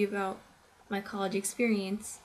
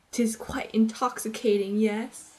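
put-on mildly posh, louder old-fashioned voice; posh scholar; 5 dB louder than usual. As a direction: savor each word like a snob. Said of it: "he thinks it's like this".

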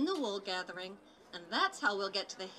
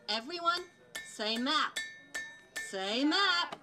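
calling out; 3 semitones higher, 4 dB louder than usual. Acted. Dora calls to audience.

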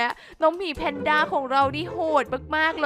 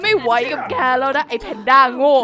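louder, exasperated telling-off; fed-up outburst; 8 dB louder than usual. Acted. Killer yells at the panda who keeps dodging, fed up. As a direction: snap at the stupid panda.

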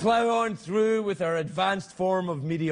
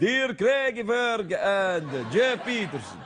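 put-on Russian accent; much slower than usual. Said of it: "I'll do it in a Russian voice".

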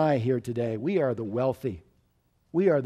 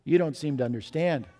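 kindly. Acted. Waitress kindly explaining heaven to outraged businessman, gentle. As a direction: smile through it, patient and kind. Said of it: "smiled and said very kindly".

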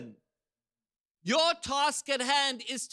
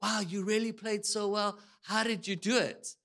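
lightly attempted British accent; a hint of a British accent, admiring interviewer; 2 semitones lower than usual. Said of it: "in a beautiful British accent".

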